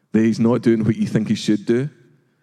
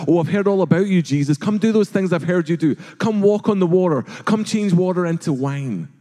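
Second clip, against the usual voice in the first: a lightly voiced mocking king, higher; mock Herod; 6 semitones higher than usual. Herod taunting Jesus to do tricks, lightly mocking and high. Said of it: "Herod sings this song".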